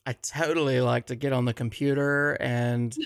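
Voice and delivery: light Valley Girl impression, bubbly. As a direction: gush it like a teen mall girl. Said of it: "in a Valley Girl voice".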